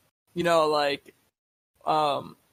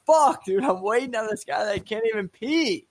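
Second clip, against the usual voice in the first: annoyed; 4 semitones higher than usual. Retold or imitated. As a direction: blurt it out fed up in line. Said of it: "so you're like".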